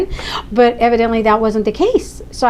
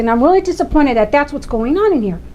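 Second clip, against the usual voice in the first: indignant disappointment; 4 semitones higher than usual. Retold or imitated. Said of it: "so frustrated and so angry".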